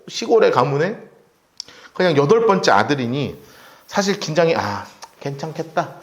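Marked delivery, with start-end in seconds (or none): 4.5-5.9 softer, slow relieved murmur; relieved sigh. Retold or imitated. King Saul relieved the boy is a nobody, soft and slow. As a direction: let the tension drain out. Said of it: "긴장이 확 풀려".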